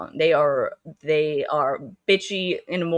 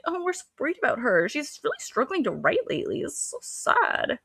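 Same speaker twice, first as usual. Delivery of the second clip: very high mock-pitying bunny voice; hammed-up, pitched-up sympathy; fake concern; 10 semitones higher than usual. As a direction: imitate mean girls feigning worry.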